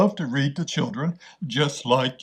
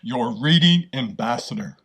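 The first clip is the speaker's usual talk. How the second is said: put-on bright, friendly welcome to kids; upbeat storytime host; cheerful host greeting. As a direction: greet young listeners like a kids' show host.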